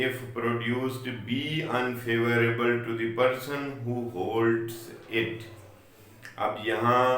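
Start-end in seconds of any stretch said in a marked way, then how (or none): 0.1-5.5 slow, deliberate recital of the law text; measured, formal reading of legal wording; reading the statute aloud. Shown as a demonstration. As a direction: read each clause slowly, as if from the book. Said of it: "इसकी जो wording है".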